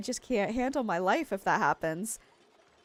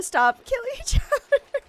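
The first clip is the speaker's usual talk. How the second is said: almost yelled; 5 dB louder than usual. Retold or imitated. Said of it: "Almost yelled".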